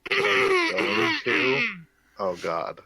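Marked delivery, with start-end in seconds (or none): 0.1-1.7 high delighted squeal. Real, not acted. Friend starts grand announcement.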